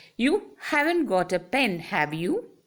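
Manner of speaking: voice goes up on have you. Question tag asking for information: rising on have you. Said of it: "that is why I raise my voice".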